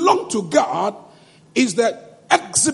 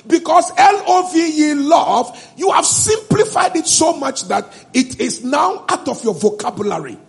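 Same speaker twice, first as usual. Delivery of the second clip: angry; 3 semitones higher than usual. Real, not acted. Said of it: "why I'm getting angry now".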